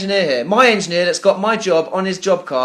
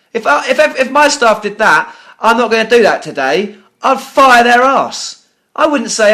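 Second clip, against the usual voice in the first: furious rant; 4 semitones higher, 5 dB louder than usual. Real, not acted. Furious customer rants at agent.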